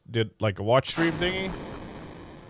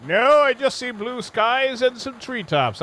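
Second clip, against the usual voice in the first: character voice; 10 semitones higher, 5 dB louder than usual. Acted. Answering game prompt, voiced.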